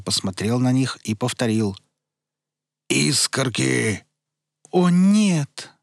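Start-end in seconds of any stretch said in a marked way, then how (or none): 2.9-4.0 demanding dazed voice. Acted. Demanding repeat. 4.7-5.7 crystal sad voice. Acted. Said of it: "прозвенел печально хрустальный голосок".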